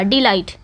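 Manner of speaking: डिलाइट with light डि and stressed लाइट. Shown as a demonstration. Teacher showing an iamb, stress on second syllable of डिलाइट. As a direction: lean gently on the लाइट of डिलाइट. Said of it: "लाइट पे थोड़ा सा".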